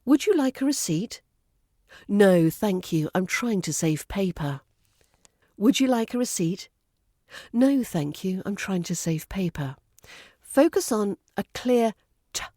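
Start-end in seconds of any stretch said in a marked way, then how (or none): 0.1-4.6 careful RP English model dialogue; RP accent. Shown as a demonstration. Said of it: "in your best R P accent". 5.6-9.8 careful RP English model dialogue; RP accent. Shown as a demonstration. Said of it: "in your best R P accent".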